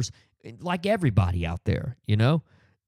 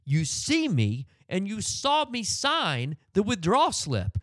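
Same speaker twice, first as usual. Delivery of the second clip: higher, slow, biting complaint; retold angry rant; 4 semitones higher than usual. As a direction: lay into the clerk word by word. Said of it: "I felt my anger just".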